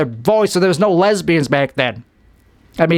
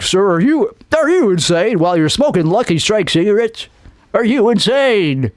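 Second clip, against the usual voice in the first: put-on raised, punchy old-time ad voice; fifties commercial announcer; 4 semitones higher than usual. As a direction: sell it like a fifties cigarette commercial. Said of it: "like you're doing a commercial".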